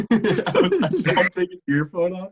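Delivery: high-pitched talk through laughter; laughing. Real, not acted. Host amused his friend got yelled at, laughing.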